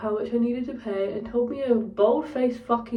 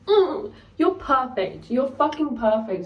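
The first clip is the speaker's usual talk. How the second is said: laughing delight; 4 semitones higher, 4 dB louder, slower than usual. Retold or imitated. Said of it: "And I was like".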